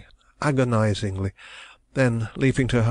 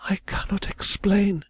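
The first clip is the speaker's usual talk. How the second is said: husky murmur; 11 semitones higher than usual. A narrator's reading. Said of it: "she murmured huskily".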